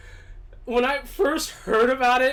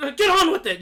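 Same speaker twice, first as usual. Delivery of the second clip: loud, higher-pitched comic heckle; Monty Python; 8 semitones higher, 5 dB louder than usual. Retold or imitated. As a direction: call it out louder, like an impatient sketch-show interruption. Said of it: "like in Monty Python".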